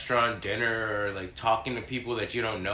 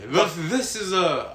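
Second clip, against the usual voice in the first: put-on slow, higher stab at an Australian accent; attempted Australian accent; 6 semitones higher, 4 dB louder, slower than usual. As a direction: have a go at Australian and do it badly. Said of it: "I can't do an Australian accent".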